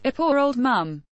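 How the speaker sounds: a hint of mocking Derek; mocking quote. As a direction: echo his phrase with a sneer. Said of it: "This is how he's been referring to Mum".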